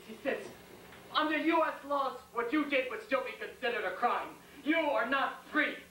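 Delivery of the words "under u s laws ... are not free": telling it to his face. Acted. Squad leader telling the prisoner to his face, pointedly. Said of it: "He tells it to his face".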